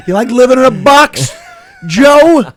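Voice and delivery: high, loud taunting jeer, laughing through it; mock taunt. Comedian taunting rival Aruba Joe, loud mocking jeer. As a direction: jeer at the rival like a schoolyard bully.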